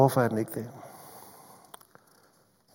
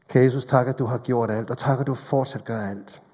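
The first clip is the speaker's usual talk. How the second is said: closing prayer. Acted.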